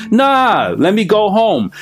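mock carefree con man; bullshit artist voice. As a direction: play it cool to get out the door. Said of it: "as the bullshit artist, could have played myself".

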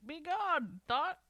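high, loud parrot call; parrot squawk. Pretend. Parrot repeating the phrase.

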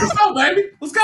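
high-pitched hype-man exclamation; hyped cheer. Acted. Fan imagining his reaction to a movie title, hyped. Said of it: "I'd be like".

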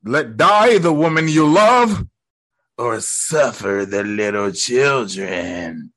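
slow, theatrical villain voice; Green Goblin. Retold or imitated. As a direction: deliver a drawn-out villain's ultimatum, dropping low. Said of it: "Green Goblin was like".

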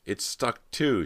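high, strained distress; choked out. A narrator's reading. Cody finds the window stuck, choked high cry. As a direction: force the words out in dismay. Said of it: "she managed to choke out".

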